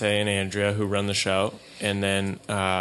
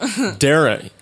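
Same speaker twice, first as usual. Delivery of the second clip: mock Irish; 7 semitones higher, 5 dB louder than usual. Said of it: "Irish people don't finish their words".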